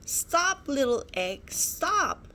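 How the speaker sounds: high desperate calls; yelling. Acted. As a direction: shout after the egg again.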